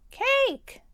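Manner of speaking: a high piglet cheer of "Cake!". Acted. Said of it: "George cheers".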